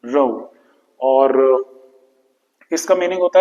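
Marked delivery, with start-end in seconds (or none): 0.1-0.5 row said alone, lower in pitch; row pronunciation demo. Shown as a demonstration. Teacher repeating row for learners, pronunciation demo. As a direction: repeat row by itself as a model. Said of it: "pronunciation है".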